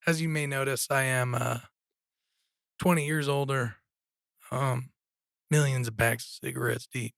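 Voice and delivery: hoarse, raspy throat. Real, not acted. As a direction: talk through a raspy sore throat. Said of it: "his voice is a little raspy".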